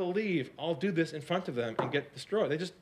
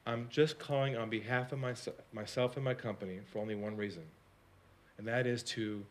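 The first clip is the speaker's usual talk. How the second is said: sincere apology; 4 semitones lower, 6 dB quieter than usual. Shown as a demonstration. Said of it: "I said this".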